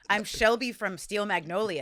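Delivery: slow Southern drawl; Shelby. Retold or imitated. Explaining her diabetes like a movie heroine, slow Southern accent. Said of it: "I have a Southern accent in this".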